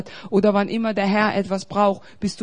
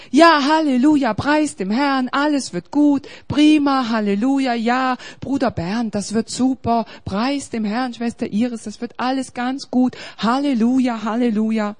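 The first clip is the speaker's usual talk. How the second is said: hammed-up churchy cheer; 4 dB louder than usual. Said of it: "am Sonntag nach dem Gottesdienst".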